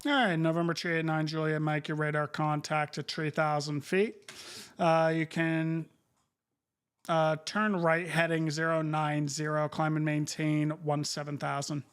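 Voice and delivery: crisp controller radio call; air traffic control radio. Acted. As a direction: read clearances like a busy controller. Controller instructions to pilot.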